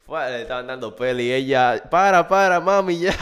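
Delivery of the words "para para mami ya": high, loud begging; mock pleading. Girl begging her mother to stop the belt, mock pleading. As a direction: beg mom to stop, hammed-up.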